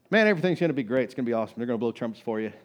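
mock cheerful prophecy, dripping sarcasm; sarcastic. Micaiah mocks the king with sarcastic cheer. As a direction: tell him what he wants to hear, sarcastically. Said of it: "that sarcastic kid".

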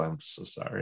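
small apologetic voice; meek apology. Retold or imitated. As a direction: imitate a soft, sheepish sorry. Mimics the repeated apology.

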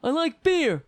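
high, loud indignant yell; Kavanaugh impression. Mocking Kavanaugh at the hearing, high and loud. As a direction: belt it defiantly. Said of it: "Kavanaugh is like that".

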